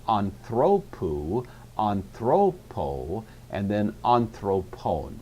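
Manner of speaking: "anthropou, anthropo, anthropon" slowly, each stressed on THRO; stress on penult. Shown as a demonstration. Teacher showing the accent moved, slow stress on THRO in "anthropou, anthropo, anthropon". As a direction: draw out each form, leaning on the middle syllable THRO. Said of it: "to the penult".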